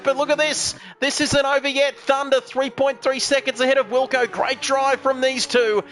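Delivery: crown the winner, then swing to the chasing cars; live race commentary. Real, not acted. Commentator hails the king of Bathurst, live race commentary. Calls the finish.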